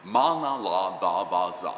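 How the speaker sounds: measured vocal-exercise syllables; elocution drill. Retold or imitated. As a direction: intone it like a diction exercise.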